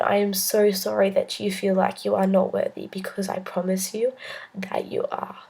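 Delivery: tender reassurance. Retold or imitated. Priest crying as he reassures Chloe, fading to whisper. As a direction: reassure her like a tearful priest.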